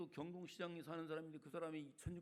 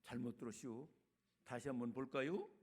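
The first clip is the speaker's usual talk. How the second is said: navigation voice in Chungcheong dialect; 5 semitones lower than usual. Acted. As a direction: lightly imitate a Chungcheong-accented satnav. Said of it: "충청도 버전을 해놓으면요".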